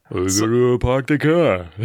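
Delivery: put-on slow, loud Boston accent; hammed-up Boston accent.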